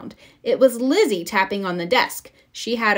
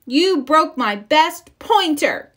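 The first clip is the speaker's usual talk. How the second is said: slow, higher, louder accusation; angry; 7 semitones higher, 5 dB louder, slower than usual. A narrator's reading. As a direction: wail over the broken pointer. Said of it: "shouted Lizzie".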